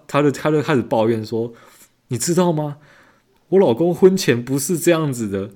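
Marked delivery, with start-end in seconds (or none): 2.1-5.5 high, pleading lovelorn wife; imitating customer. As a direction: wail up high about the husband. Customer laments husband changed.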